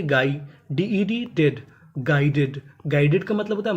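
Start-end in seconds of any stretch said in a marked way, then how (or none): 0.0-0.4 गाई as one gliding syllable; teacher showing गाई as "gaai"; GUI read as "gaai". Shown as a demonstration. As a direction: model गाई with a hard g and silent u. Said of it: "इसे पढ़ेंगे".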